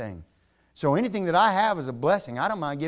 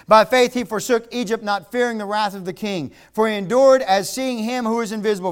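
reread louder; 2 semitones higher, 5 dB louder than usual. Shown as a demonstration. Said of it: "somebody wake somebody up beside you".

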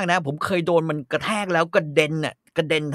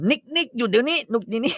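high calling shout to stop the dog; 10 semitones higher than usual. Acted. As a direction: call the dog sharply to halt. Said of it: "นายตะโกนบอกว่า".

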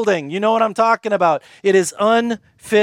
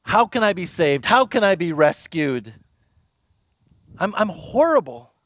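despairing Paul; 2 semitones lower than usual. Retold or imitated. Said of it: "Paul comes to the end of himself".

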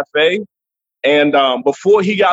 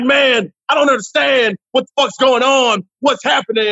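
Gary Owen; 7 semitones higher than usual. Acted. Comic mimics a friend talking, high and bewildered. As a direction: pitch it up, pleading to know what's wrong. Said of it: "Gary Owen start talking like this".

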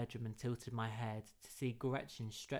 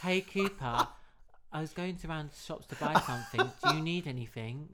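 Gretchen's voice; 4 semitones higher, 7 dB louder than usual. Acted. Gretchen voiced in read story.

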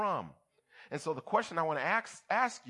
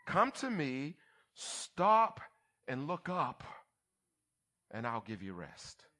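Jesus; slower than usual. Acted. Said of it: "what Jesus is saying".

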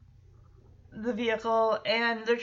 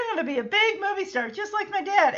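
mock kid boast; 7 semitones higher, much faster than usual. A singer boasting, retold second time.

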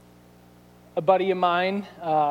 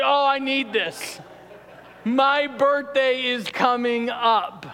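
excited; 4 semitones higher, slower than usual. Retold or imitated. Retells craving the mug.

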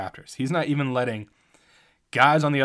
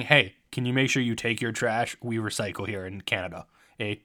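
put-on a light Canadian accent, friendly; mild imitation of a polite Canadian; 2 semitones lower than usual. A rapper reminds Draymond about trash, light Canadian accent. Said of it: "my Canadian impression".

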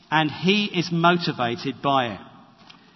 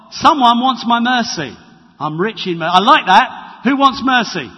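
loud, delighted questions; eager Jesus voice; 3 semitones higher, 6 dB louder than usual. Acted. Jesus hearing the beggar's cry, eager and loud. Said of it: "comes into the ear of God".

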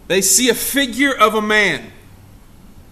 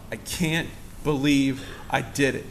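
regretful thought; 8 semitones lower, 10 dB quieter than usual. Acted. Peter's inner regret.

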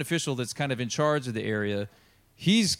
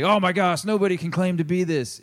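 mock freak-out; 5 semitones higher, 3 dB louder than usual. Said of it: "they all freak out and say".

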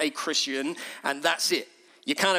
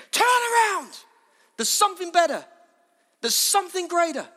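high, loud urgent shout; impassioned, raised preacher's appeal; calling out; 11 semitones higher, 4 dB louder than usual. Acted. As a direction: cry it out to the crowd. John's real cry after meek version.

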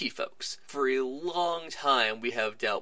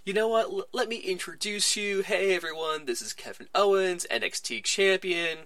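higher, hammed-up Cena introducing the new guy; mock Cena announcer voice; 6 semitones higher than usual. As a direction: play it as a showy, patronizing introduction. Cena mockingly introduces Owens.

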